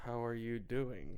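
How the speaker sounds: slow, stiff robot voice. Pretend. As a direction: say it like a robot, slowly. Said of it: "Sound like a fucking robot".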